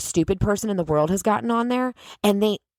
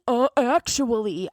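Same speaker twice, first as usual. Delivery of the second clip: slow mocking "Uh, actually" with a drawn "Uh"; mock know-it-all; 4 semitones higher, slower than usual. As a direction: imitate the smug corrector again. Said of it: "No, any".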